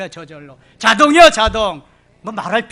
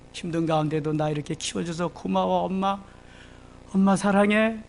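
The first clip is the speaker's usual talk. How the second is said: tender thanks. Acted. Preacher voicing a grateful child thanking mother, tender. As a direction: speak gently to mom.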